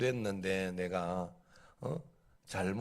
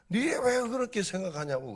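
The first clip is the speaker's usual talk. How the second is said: raised, challenging quoted question; mock incredulous friend; 13 semitones higher than usual. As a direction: pitch it up like a baffled friend. Friend's retorts in political dispute.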